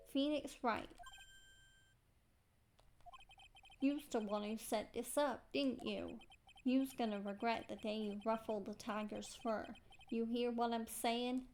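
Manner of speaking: put-on tough-guy Brooklyn accent; Furio Tigre. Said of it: "Tigre's dialect".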